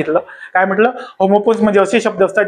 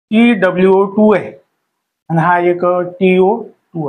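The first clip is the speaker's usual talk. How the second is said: slow spelling out; slower than usual. Shown as a demonstration. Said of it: "मी काय लिहितो त्याकडे लक्ष द्या".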